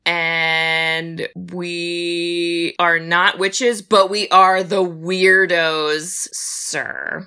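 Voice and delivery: slow, drawn-out quoted line; movie line quote. Retold or imitated. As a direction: deliver it like a film line. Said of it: "'Cause that's a great line".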